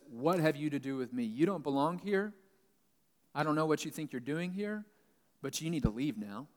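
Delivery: lightly acted challenge, pushing upward then settling; mock in-your-face challenge to an intruder; confrontational. Demon-possessed man gets in Jesus' face, confrontational. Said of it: "he's confrontational. He's in his face".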